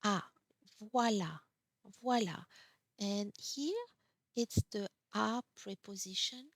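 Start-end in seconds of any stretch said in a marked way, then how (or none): 0.0-2.5 A and voilà with the same open "ah"; voilà twice, loud, ending on a clear "ah"; unchanged A. Shown as a demonstration. French teacher showing accent grave leaves A unchanged, open ah. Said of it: "You'd still pronounce A".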